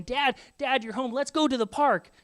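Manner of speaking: put-on eager kids pestering. Kids begging dad after work, excited child voice.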